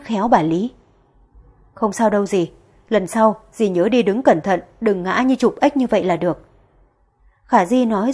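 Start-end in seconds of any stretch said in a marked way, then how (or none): 1.7-6.4 light pointed hint. Acted. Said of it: "chỉ nói một câu nhẹ tênh".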